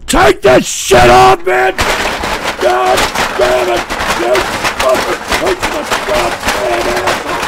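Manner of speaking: angry shouting. Real, not acted. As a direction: shout it, fed up and outraged. Raging about the prank call.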